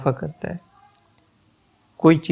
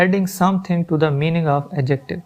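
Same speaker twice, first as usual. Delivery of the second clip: slow dictation; much slower than usual. Shown as a demonstration. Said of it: "teacher reads rule heading".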